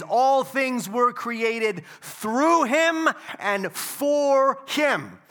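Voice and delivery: measured, weighty scripture read, slow and loud. Acted. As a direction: read each phrase like a proclamation.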